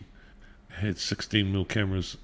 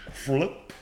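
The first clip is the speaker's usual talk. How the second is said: drawn-out, slightly raised slow-motion flip; 4 semitones higher than usual. Shown as a demonstration. Storyteller replaying the coin toss in slow motion. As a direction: stretch the word out as in slow motion. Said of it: "slow motion".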